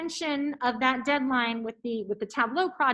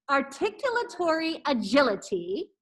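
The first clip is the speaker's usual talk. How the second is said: careful articulation. Shown as a demonstration. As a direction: enunciate every syllable clearly. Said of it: "One more time".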